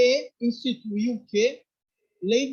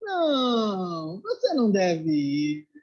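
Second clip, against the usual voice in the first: master's reply; much slower than usual. Retold or imitated. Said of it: "olhou pra ele e disse isso aqui".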